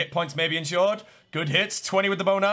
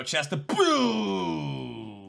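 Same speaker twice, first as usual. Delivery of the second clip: slow, drawn-out fake sob; mock crying; much slower than usual. Streamer fake-sobbing over bad chest loot. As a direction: wail the words like a sulking child. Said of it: "I'm actually gonna cry".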